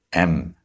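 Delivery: "emphasize" split into syllables, EM strongest; first-syllable stress. Shown as a demonstration. Teacher showing syllable stress to students, EM-pha-size. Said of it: "the stress is on the first syllable".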